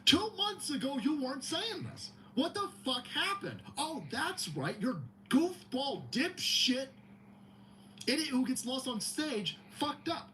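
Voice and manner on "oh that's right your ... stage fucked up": slow sarcastic drawl. Real, not acted. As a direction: drag it out mockingly.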